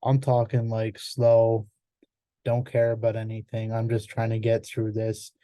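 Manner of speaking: uninterested presenter reading off slides; bored monotone. Shown as a demonstration. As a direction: drone on like you're just trying to get through it. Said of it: "even less monotone than I'm talking about".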